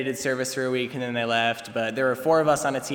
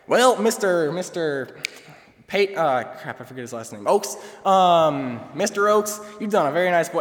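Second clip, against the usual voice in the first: put-on higher and louder, a light Southern accent, fond and proud; loving Southern rancher; 4 semitones higher, 3 dB louder than usual. Harvey praising Peyton to his dad on the phone, in a light, loving Southern accent. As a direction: imitate the kindly Texan praising a boy to his father. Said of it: "super just loving about it".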